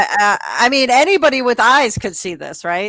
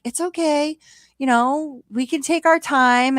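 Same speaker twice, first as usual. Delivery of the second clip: mock reassurance; 5 semitones higher than usual. Charles calms his crying date, high gentle mock reassurance. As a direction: imitate someone gently placating, pitched up.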